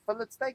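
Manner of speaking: "fillet" said "FILL-it", with the T sounded; short "fillet" ending in a clear "it"; South African pronunciation. Shown as a demonstration. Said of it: "Because there's a T there".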